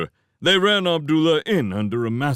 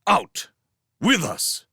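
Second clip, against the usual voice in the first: high, curt soldier's command; brusque squad leader snapping; snapped order; 8 semitones higher, slower than usual. A narrator's reading. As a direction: snap out orders to a prisoner. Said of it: "snapped the squad leader".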